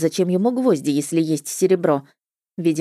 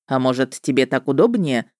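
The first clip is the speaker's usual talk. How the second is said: insinuating witcher; 4 semitones lower than usual. A narrator's reading. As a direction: slide the question in with mild slyness. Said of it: "вкратчиво поинтересовался он".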